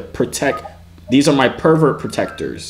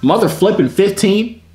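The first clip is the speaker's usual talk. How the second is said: shocked; 9 semitones higher, 3 dB louder than usual. Real, not acted. Shocked at the kid's age.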